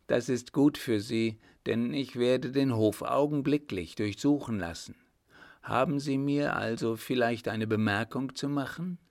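lightly voiced commanding emperor, dismissive; a hint of an emperor issuing a warning; stern emperor.

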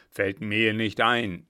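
langsam wiederholt. A narrator's reading. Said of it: "wiederholte der Kapitän".

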